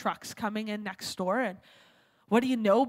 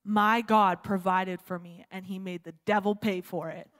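calm, straight retort; 5 semitones lower than usual. Retold or imitated. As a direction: land it as a measured punchline. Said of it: "she looks him straight in the eye".

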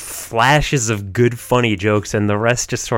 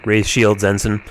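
Captain Murphy voice; 4 semitones lower than usual. Acted. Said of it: "the Captain Murphy voice".

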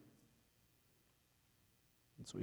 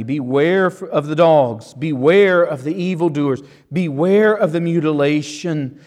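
firm, measured warning stressing each BEWARE; emphatic warning. Acted. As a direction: drive home every BEWARE in the list. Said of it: "he's emphatic".

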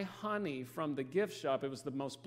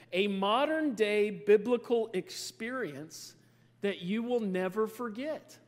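slow, louder, mock-grand product pitch; reading ad copy; 3 semitones higher, 4 dB louder, slower than usual. Shown as a demonstration. Preacher reading the locust kit's ad to church, mock-grand. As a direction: read the blurb like a commercial. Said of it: "here's the description".

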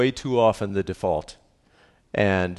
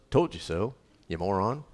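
mock insult. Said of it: "No, you don't say that".

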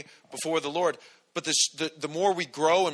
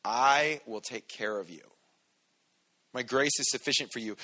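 tender God voice; 3 semitones lower than usual. Acted. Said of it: "That means it's enough".

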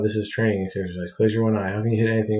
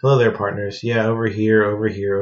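loud carnival barker hail; a fairground barker drumming up business; barker calling out; 6 dB louder than usual. Acted. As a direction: call the crowd over to the booth.

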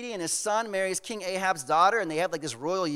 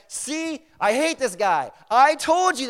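higher, exasperated mock outburst; mad king; 5 semitones higher, 4 dB louder, slower than usual. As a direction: complain like a king proven right. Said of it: "gets mad".

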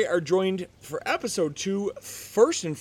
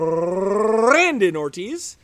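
announcer intro; 6 dB louder, much slower than usual. Acted. Host introducing guest with flourish.

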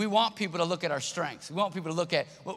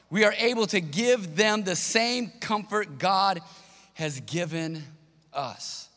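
scripture reading; 2 semitones higher, slower than usual. Acted. Pastor reads Second Corinthians aloud to the congregation, slow and solemn. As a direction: read it out like scripture from the pulpit. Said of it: "It says".

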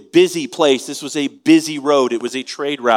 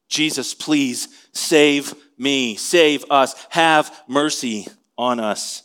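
slow desperate plea; much slower than usual. Retold or imitated. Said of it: "they cried out all the more".

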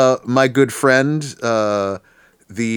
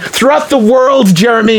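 mock proclamation; 4 semitones higher, 4 dB louder than usual. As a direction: proclaim it like a rally speech.

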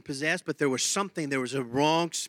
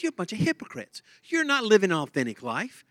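rising to a loud preaching rebuke, higher and louder; Jesus rebuking leaders; 5 semitones higher, 5 dB louder than usual. Retold or imitated. Preacher voicing Jesus scolding the religious leaders, loud. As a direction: thunder at the hypocrites from the pulpit. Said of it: "And Jesus said".

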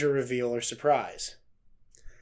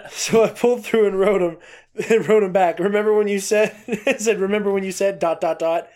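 reads through real laughter, louder; laughing while reading; 4 semitones higher, 5 dB louder than usual. Real, not acted. Reading Kevin Smith's quote to her cohost, laughing through it. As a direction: keeps breaking into laughs mid-quote.

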